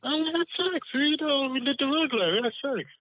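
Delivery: high-pitched and hesitant; unsure. Real, not acted. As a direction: say it without any confidence. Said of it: "You don't sound like you got good sex. You're not even confident".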